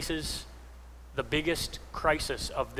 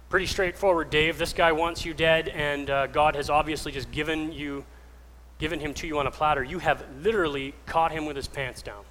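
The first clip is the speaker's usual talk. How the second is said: lightly voiced pushy buddy, a bit louder; helpful friends; 5 dB louder than usual. David's friends urging him in the cave, casually persuasive. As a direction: talk a friend into it, matter-of-fact. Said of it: "David's friends had a lot of helpful suggestions".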